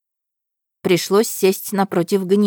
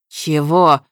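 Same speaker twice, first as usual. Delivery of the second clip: nervous; 5 dB louder than usual. Acted. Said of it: "нервно сглотнул Ахмар".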